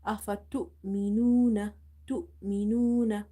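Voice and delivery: abrupt stop on the hamza in تؤمنون; تؤمنون broken sharply at the hamza; sudden pause. Shown as a demonstration. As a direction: cut off after "tu" in تؤمنون, then go on. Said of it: "We will give it a sudden pause".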